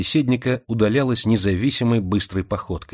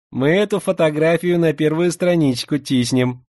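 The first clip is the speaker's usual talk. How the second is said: slushy sh for s; 6 semitones higher, 3 dB louder than usual. Acted. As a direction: lisp every s into a slushy sh. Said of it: "своим шепелявым голоском".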